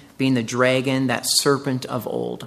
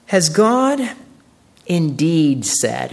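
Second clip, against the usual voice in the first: a tempter sneering at a woman's trust; mocking question; 2 semitones higher, 4 dB louder, much slower than usual. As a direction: scoff at the very idea. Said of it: "it's telling you the tone. It's a mocking".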